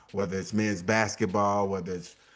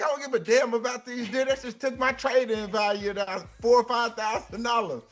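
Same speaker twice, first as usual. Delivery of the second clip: retold himself; 11 semitones higher than usual. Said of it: "I was like".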